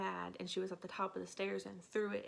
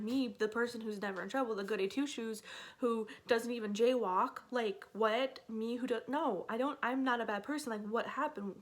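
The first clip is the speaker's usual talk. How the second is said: retold indignant panic, somewhat raised; freaking out; 2 semitones higher, 4 dB louder than usual. Goody two-shoes protesting being accused, mildly freaking out. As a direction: protest your innocence, mildly frantic. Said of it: "I'm, like, freaking out".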